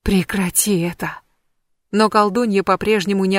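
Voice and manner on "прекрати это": whispered plea. Acted. Loki leans in to coax the witch, whispering. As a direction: whisper close to her ear. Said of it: "шепча, уговаривая".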